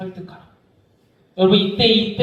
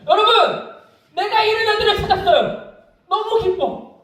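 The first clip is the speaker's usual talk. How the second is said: joyful father calling out; 11 semitones higher than usual. Acted. Father calling the villagers to the feast, overjoyed. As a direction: shout the good news to everyone.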